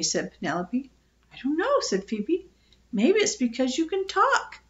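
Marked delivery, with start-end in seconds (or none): 1.3-1.8 put-on high little-girl voice; small, high, unsure reply; timid child. A narrator's reading. Timid girl answers the parrot. 2.9-4.6 put-on high little-girl voice; young girl, pitched high; timid child. A narrator's reading. Timid girl answers the parrot.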